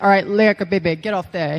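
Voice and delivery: lightly voiced coach, loud then dropping; Dusty Rhodes. Trainer sending Roman off, lightly imitated order. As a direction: imitate a trainer waving someone off. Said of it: "this is a Dusty impression".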